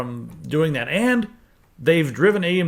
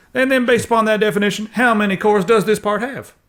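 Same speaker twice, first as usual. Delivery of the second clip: loud, high, put-on Southern lawyer voice; 6 semitones higher, 5 dB louder than usual. Speaker talking with others, putting on a southern lawyer voice. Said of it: "Southern lawyer voice".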